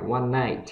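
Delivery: "night" very short, stopped on T; quick cut-off NIGHT. Shown as a demonstration. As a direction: clip "night" at the final T. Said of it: "phải đọc thật là nhanh". ("night" đọc nhanh, ngắt ở âm T)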